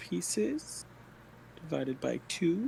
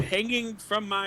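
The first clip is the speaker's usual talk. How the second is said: put-on frail old woman; 4 semitones higher than usual. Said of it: "look like an old woman".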